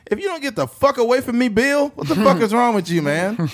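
high, loud, fast exasperated mock yell; annoyed retort. Telling Bill to back off, high exasperated mock yell. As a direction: push off an overfamiliar coworker, fast and fed up.

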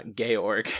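"Georg" said as GAY-org; attempted foreign name. Real, not acted. Podcaster attempting the husband's name, "Georg" as GAY-org. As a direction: try "Georg" with a hard G, in two syllables. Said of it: "I can't, George".

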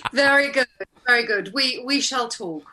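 lofty, gracious goddess voice; regally pleased goddess; regal goddess approval. Acted. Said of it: "Miss Hathor".

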